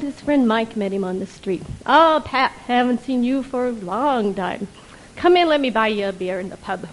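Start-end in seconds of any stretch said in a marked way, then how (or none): 1.9-6.9 Irish brogue. Acted. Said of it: "in a not a very good Irish brogue".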